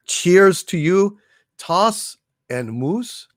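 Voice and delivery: slow, drawn-out toast to a friend. Real, not acted. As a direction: raise a glass and say it slowly. Toasting a generous donor.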